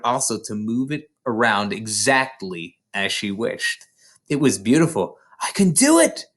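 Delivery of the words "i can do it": high, loud triumphant cry; cried out in joy. Acted. Matilda cries out in joy at her power, high and loud. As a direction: shout the triumph. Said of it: "she cried".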